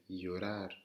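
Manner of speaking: LLORAR begun with a Y glide; double L en Y. Shown as a demonstration. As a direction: model llorar as "yorar". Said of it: "un Y à la place du double L". (llorar avec un Y initial)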